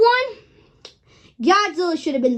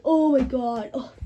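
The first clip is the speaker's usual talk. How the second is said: slurred, fading to a hushed mumble; sleepy drunk giving up; mumbling off to sleep; 4 semitones lower, 3 dB quieter than usual. Retold or imitated. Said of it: "He literally just goes drunk".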